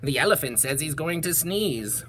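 understated warning at an everyday pitch; bee's warning. Acted. Bees warn the bear of a sneeze, understated warning. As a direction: pass the warning on lightly, as a bee. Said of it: "called the bees to the bear".

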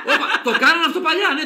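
μιλάει μέσα από δυνατό γέλιο, ψηλά; πες το γελώντας ακόμα; γελαστά. Real, not acted. Μιλά ενώ γελάει. (γελαστή, ψηλή φωνή)

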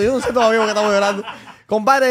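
laughing through the words, a bit fast. Real, not acted. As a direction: chuckle while telling it. Laughing while retelling crying.

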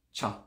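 "cha" begun like a soft T; short "cha" with a soft T onset; soft initial CHA. Shown as a demonstration. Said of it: "like a soft T".

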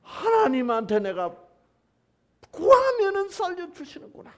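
Jonah's awed realization; amazed realization. Acted. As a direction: let the wonder build. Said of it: "요나가 깨닫는 거예요".

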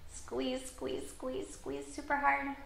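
high, tight squeezed voice; straining squeeze. Shown as a demonstration. Coaching kids to squeeze tight.

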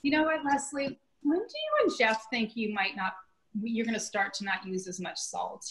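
lightly voiced mother, sweetly needling; a mild hint of a mom nudging her daughter about the salt; passive-aggressive mother. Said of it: "my mother's kind of passive aggressive".

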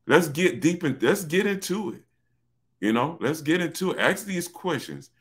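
real building excitement, pitch climbing; getting excited. Real, not acted. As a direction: lift it up as the fire catches. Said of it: "I'm getting excited right now".

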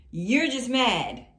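loud, stretched-out jab; slow, loud taunting; drawn-out taunt. Acted. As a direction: draw it out loudly to needle him. Voices Empress taunting the Emperor.

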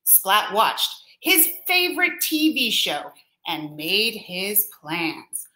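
put-on gentle read-aloud to children, slowing at the end; storybook reading. A narrator's reading. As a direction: read it like a bedtime picture book. Reading picture book aloud.

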